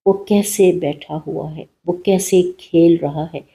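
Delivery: calm, even meditation voice; soothing guided meditation read. Acted. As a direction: lead the listener gently into relaxation. एक meditation करेंगे.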